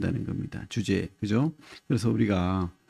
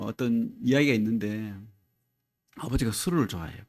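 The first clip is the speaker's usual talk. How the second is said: usual speaking voice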